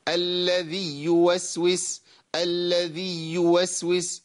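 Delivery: slow, with the ya of "الذي" doubled into "يوسوس"; "الذي يوسوس" with the ya leaned on too hard; wrong doubled ya. Shown as a demonstration. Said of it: "كده شددت الياء".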